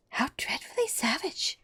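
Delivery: shocked exclamation. A narrator's reading. Alice reacting to the Queen's cruelty, shocked. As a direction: sound scandalised. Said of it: "exclaimed Alice".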